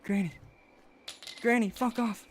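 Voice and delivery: high, loud yell at her; shouting. Real, not acted. Yelling at enemy.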